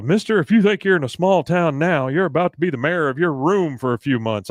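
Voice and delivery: high, loud mock threat; imitating Hank. Hank threatening Bobby, loud and high. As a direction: lay down the law. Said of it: "Hank says".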